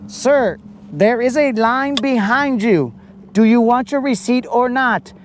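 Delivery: a fed-up cashier at the register; annoyed cashier voice. Retold or imitated. Cashier losing patience.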